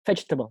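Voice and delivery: "vegetable" with the weight on VEG; first-syllable stress. Shown as a demonstration. Teacher repeating the example, "vegetable" stressed on the first syllable. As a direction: stress the start of "vegetable", the rest light. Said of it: "ada penekanan pada beberapa huruf".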